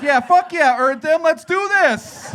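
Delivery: mock Birmingham crowd getting fired up; rowdy hyped crowd. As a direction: whoop it up like an eager mob. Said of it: "they're like".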